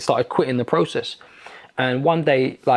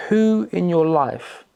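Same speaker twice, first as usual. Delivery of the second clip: slow, drawn-out retold question, pitched higher; slow probing question; 5 semitones higher, much slower than usual. Facilitator pressing him about his anger, slow probing question. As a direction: draw out the facilitator's question, slightly raised.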